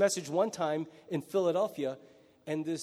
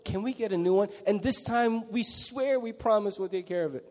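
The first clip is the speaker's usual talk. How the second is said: put-on whiny kid; 3 semitones higher than usual. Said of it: "exactly what's gonna".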